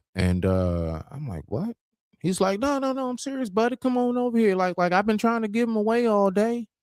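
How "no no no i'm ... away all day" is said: put-on strong, heavy rural country accent, very high-pitched. Retelling what a man said while trying to give an animal away, deep country accent. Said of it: "Had a real deep country".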